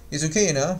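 "you know" as a linked "y'know"; reduced you know. Shown as a demonstration. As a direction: keep just the Y of "you" in "you know". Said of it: "只把这个Y的这个音呢出来".

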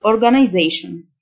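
organization the British way, "-eye-ZAY-shn"; British pronunciation. Shown as a demonstration. Teacher contrasting accents for learners, British pronunciation of organization. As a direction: say organization in British style, long i before "zation". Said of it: "وده النطق البريتش".

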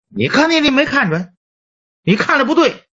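a patient upset after slamming the table, voiced high; patient protesting the doctor got it wrong, pitched high; indignant patient. Patient slams table, says wrong.

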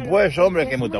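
imitated paisa accent from Medellín. Telling how they answered a Colombian, mock Medellín accent. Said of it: "el de Medellín".

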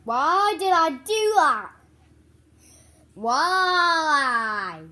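talking with gum in mouth; wincing at sour taste; chewing gum. Real, not acted. Seen 0: Unwraps gum before; chewing motions and sour grimaces during words.

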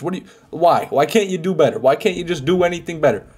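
fed-up rant at a stingy boss; frustrated rant. Real, not acted. Ranting at boss over loot.

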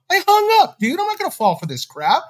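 hot-headed retelling of the shout; retold yell. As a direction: voice jumping high for a mock yell. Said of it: "I was literally yelling".

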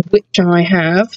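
slow teasing brag; smug gloat. Acted. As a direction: savour the taunt. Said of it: "Just to rub it in on them".

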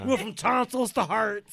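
high, loud, laughing remark; real laughing. Real, not acted. To friends, laughing at the jump from tonsils to hearts. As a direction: say it while laughing hard.

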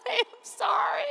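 high, loud, slow panicked outcry; terrified cry. Retold or imitated. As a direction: cry out in panic from the swaying bridge. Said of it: "He's like".

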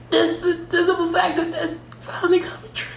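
crying while laughing; teary laugh-cry. Real, not acted. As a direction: voice wobbling with happy tears. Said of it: "sorry, I didn't mean to get teary-eyed on here".

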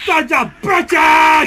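slow, stretched battle yell; drawn-out angry shout. Real, not acted. Player drags out a curse at raiders, slow yell. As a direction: bellow it out slowly at the enemies. Gamer cursing while fighting.

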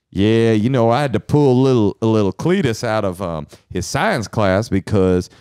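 lightly played Southern right-winger; Southern accent. Playing right-wing relative for wife, in Southern accent. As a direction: put on a Southern accent near your own pitch. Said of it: "doing this Southern accent".

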